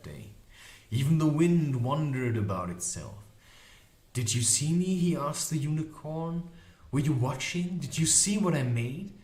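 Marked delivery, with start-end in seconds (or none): 4.1-9.1 higher, eager rising questions. Acted. Magician asking the unicorn if she watched, mildly eager. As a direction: ask it hopefully, pitched up.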